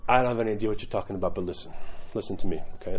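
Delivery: low, dry imitation of an old monk; British-accented monk. Monk answering the zealous convert, low British-accented imitation. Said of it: "he had this British accent".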